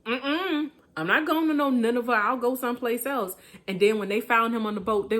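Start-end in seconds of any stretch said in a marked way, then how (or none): 0.1-3.4 Jonah's quick, higher, louder flat refusal; mock the prophet saying no way; stubborn Jonah refusing. Preacher voicing Jonah refusing God's call, quick and defiant. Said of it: "he was like".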